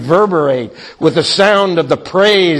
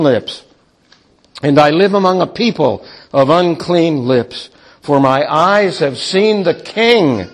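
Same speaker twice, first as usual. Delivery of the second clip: anguished lament. Acted. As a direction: lament as a ruined man. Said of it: "Then I said".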